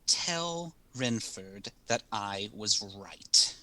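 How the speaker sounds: slow, fierce message, understated. Acted. Telepathic note sent to be passed to Renford, slow understated fierceness. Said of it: "like, the fiercest, like, voice".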